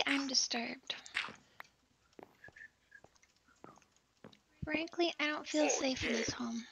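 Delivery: hushed mock aside; whispering. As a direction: whisper it like a confession.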